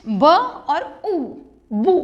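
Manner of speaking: "ब और ऊ" stretched slowly, then joined as "बू"; slow sounding out. Shown as a demonstration. Teacher drills the class on a sound blend, slow sounding out. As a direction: drag out each sound, then join them. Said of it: "Next is B U S H".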